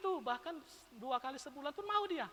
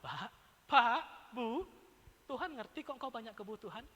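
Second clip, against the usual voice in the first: mock-soothing; 3 semitones lower, 3 dB quieter than usual. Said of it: "saya sering mengatakan".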